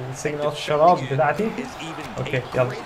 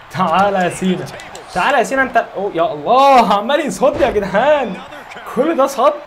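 frustrated yell; 2 semitones higher, 4 dB louder than usual. Real, not acted. Gamer yelling at Cena for blocking everything. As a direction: yell at the opponent who keeps blocking.

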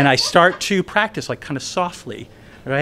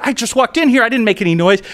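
protesting Kevin; 8 semitones higher, 4 dB louder than usual. Retold or imitated.

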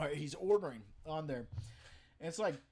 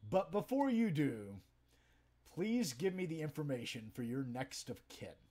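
deadpan sarcasm; 2 semitones higher than usual. Retold or imitated. Punchline retort to coworker.

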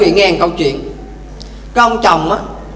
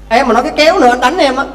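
threatening husband; 4 semitones higher, 3 dB louder, faster than usual. Acted.

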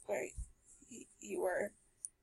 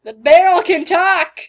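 loud slow amazed cry; astonished; 5 semitones higher, 16 dB louder than usual. Real, not acted. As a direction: gasp it out amazed. Astonished reaction.

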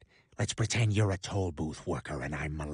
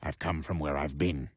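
deep voice. Acted. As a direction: growl it low like a cowboy. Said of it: "won a deep voice contest".

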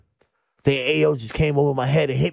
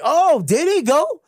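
street taunt; 7 semitones higher than usual. Retold or imitated. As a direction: taunt them like you've got a surprise. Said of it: "I came back with my street shit".

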